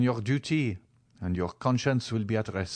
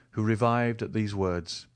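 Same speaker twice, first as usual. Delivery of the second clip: ordinary delivery, nothing marked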